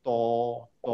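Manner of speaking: ত said with rounded lips. Shown as a demonstration. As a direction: round the mouth for ত. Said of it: "আমরা মুখটা গোল করে ফেলছি".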